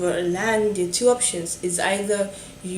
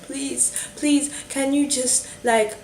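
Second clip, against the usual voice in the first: desperate pleading; 3 semitones higher than usual. Retold or imitated. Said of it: "were so desperate".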